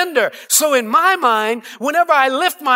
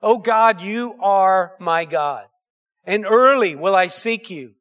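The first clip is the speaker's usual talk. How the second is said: psalm reading; 2 semitones lower than usual. Acted.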